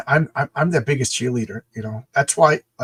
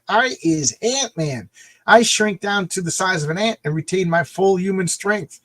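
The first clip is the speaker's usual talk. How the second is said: Garrett Morris as Ant-Man; 5 semitones higher than usual. Retold or imitated. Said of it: "Garrett Morris was Ant-Man".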